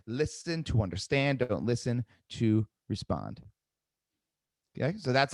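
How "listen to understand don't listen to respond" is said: slow emphasis. Shown as a demonstration. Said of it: "I'll say it again".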